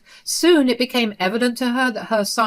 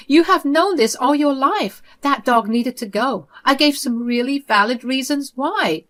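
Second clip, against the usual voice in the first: higher, louder offended mother's voice; indignant mother; 5 semitones higher, 4 dB louder than usual. Acted. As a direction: scold him for his tone. Mother defends herself.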